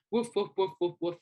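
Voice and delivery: quick spoken woofs; light, wordy dog-bark imitation; imitated barking. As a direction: mimic dogs barking in words.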